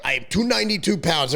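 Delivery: a loose, half-hearted Egyptian-accented Big Ramy imitation; mock Big Ramy's Egyptian accent, barely shifted; lightly put-on Egyptian accent, imitating Big Ramy; bad Ramy accent. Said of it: "that's a horrible Ramy accent".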